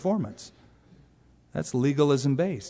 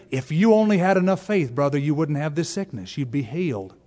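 put-on lightly done Southern preacher accent. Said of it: "why do I always do a Southern accent?".

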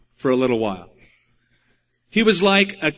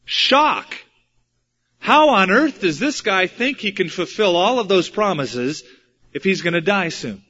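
shocked reaction; 3 semitones higher than usual. Acted. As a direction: voice a stunned public's incredulous protest. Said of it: "What would be the reaction".

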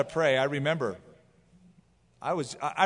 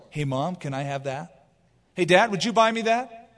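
put-on rising, louder, eager child; child asking; 5 semitones higher, 3 dB louder than usual. Son asking mom and dad to buy things, eager and high. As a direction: beg like a kid in a store.

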